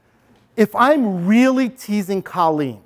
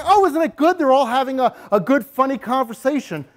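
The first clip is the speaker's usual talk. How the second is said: cheery teacher; 5 semitones higher than usual. Retold or imitated. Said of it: "She might be over there and say".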